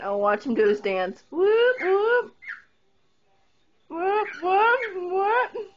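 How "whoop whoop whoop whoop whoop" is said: cheering whoops. Acted. Cheering bird's dance.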